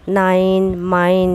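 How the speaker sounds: নাইন, মাইন with a gliding 'ai'; long i sound. Shown as a demonstration. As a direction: glide 'ai' in নাইন clearly. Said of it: "উচ্চারণ হয় আই". (নাইন মাইন-এ আই ধ্বনি)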